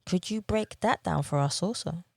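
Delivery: ordinary talk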